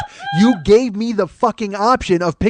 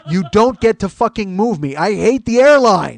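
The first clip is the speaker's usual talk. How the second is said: mock rant; 3 semitones higher, 5 dB louder than usual. Real, not acted. Ranting about the airline.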